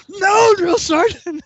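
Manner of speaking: slow, high mock-outraged repeat; incredulous echo. Sergeant throws refusal back, drawn-out mock outrage. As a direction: drag it out in disbelief.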